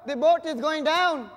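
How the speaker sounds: loud, hammed-up panic; mock-panicked shopkeeper shouting; freaking out. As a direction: cry out in mock alarm, drawing out the doom. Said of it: "freaking out".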